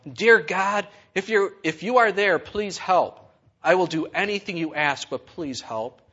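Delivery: loud, high desperate cry to God; yelled plea. Acted. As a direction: call out to heaven for help. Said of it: "looked to the heavens and yelled out".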